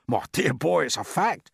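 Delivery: a hint of a proud worm; lightly put-on, assured reply; lightly voiced earthworm. A narrator's reading. Earthworm assuring doubtful James, lightly voiced and assured.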